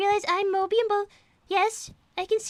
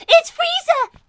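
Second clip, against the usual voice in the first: excited announcement; 8 semitones higher, 9 dB louder, much slower than usual. Acted. Frieza arrives in the scene.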